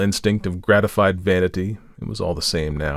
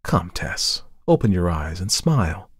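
gentle coaxing. Acted. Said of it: "comforted her".

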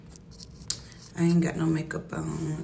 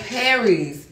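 loud, raised-pitch scold; scolding daughter; 4 semitones higher, 4 dB louder than usual. Retold or imitated. Mother scolding daughter Paris about her Gemini temper, loud. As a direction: lay down the law to Paris. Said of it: "I be like".

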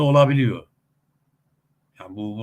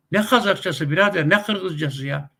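higher, louder dismissive retort; scornful objection; 6 semitones higher, 4 dB louder than usual. Real, not acted. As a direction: scoff at it like to a mate. Scoffing at separate language names. (yüksek perdeden, küçümseyen itiraz)

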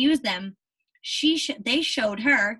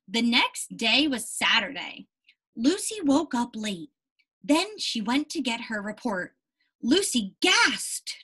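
story reading. Acted. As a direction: clear read-aloud for children. Reads picture book to class.

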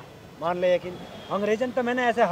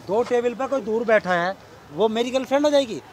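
angry denial; 4 semitones higher, 3 dB louder than usual. Acted. Boyfriend denies cheating, heated quarrel.

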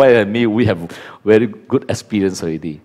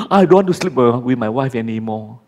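sulking husband. Retold or imitated. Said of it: "When your wife speaks".

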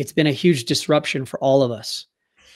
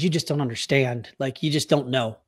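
inner thought; 5 dB quieter than usual. Retold or imitated. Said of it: "what I thought in my head".

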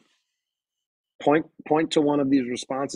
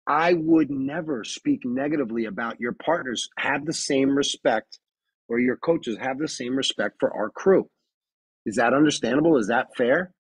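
firm respectful warning; 3 semitones higher than usual. Retold or imitated. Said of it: "went even more firm".

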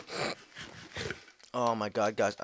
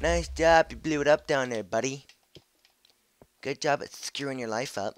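loud sarcastic congratulations; loud mocking praise; 4 semitones higher, 8 dB louder than usual. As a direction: jeer at the blown-up mob. Mocking exploded creeper.

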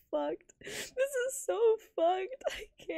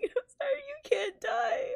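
crying; 3 semitones higher than usual. Real, not acted. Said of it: "I'm crying".

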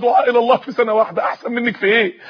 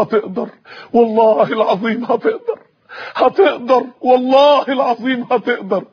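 tearful reassurance; slower than usual. Acted. Sheikh reassures, voice crying.

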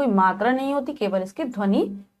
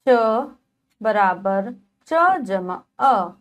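slow spelling; slower than usual. Shown as a demonstration. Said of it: "teacher spells syllable".

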